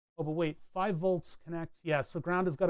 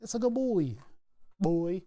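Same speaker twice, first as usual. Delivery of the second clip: bouncy dog praise; 2 semitones higher than usual. Shown as a demonstration. Praising an imagined pet dog, bouncing like a spring. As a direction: bounce it like a spring, pitch leaping on "good". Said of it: "Say it like you're bouncing a spring".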